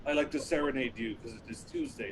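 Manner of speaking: put-on a light touch of French accent; lightly voiced French lover. Frenchman offering a Tuesday serenade in a light French accent. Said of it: "I love your accent".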